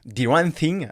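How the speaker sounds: attempted English accent on a French voice. Shown as a demonstration. Coach naming mistake eleven in English, light English accent. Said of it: "avec mon accent anglais".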